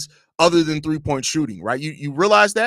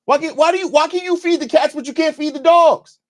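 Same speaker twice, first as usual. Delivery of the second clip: exasperated dad; 13 semitones higher, 5 dB louder than usual. Real, not acted. Dad scolding son about dogs.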